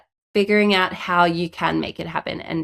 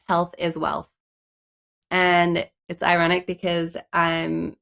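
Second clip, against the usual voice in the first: stuffy nose from a cold; blocked nose; slower than usual. Real, not acted. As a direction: speak through a blocked nose. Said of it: "sounding stuffy".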